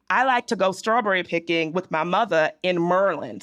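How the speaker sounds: demonstrating a Washington DC accent, "Maryland" as "Murlin". Shown as a demonstration. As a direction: say it like a longtime DC local, centralized vowels. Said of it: "it will sound something like this".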